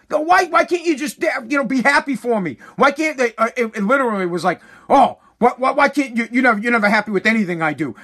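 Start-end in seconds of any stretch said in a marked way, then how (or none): 0.1-3.3 higher-pitched indignant protest, imitated; retold angry complaint. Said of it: "He was pissed". 4.9-8.0 mimicked aggrieved kid, speeding up; retold angry complaint. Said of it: "He was pissed".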